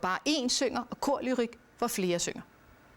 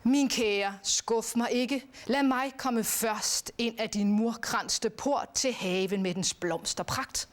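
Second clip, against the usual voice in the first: recited love poem. Shown as a demonstration. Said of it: "til hende siger han".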